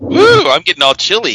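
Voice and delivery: thrilled squeal, then giddy; excited. Real, not acted. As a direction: whoop it up, delighted by the spooky music. Spooky music on the website.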